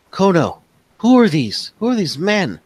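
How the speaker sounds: high, loud alarmed wife's voice; worried wife. Acted. Wife alarmed to find strangers in the house. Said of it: "She says".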